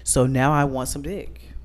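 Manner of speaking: tipsy, loose and giggly. Real, not acted. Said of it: "'cause I'm a little tipsy now".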